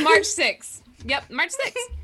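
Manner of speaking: March punched, high and loud; stress on March. Real, not acted. Correcting after laugh.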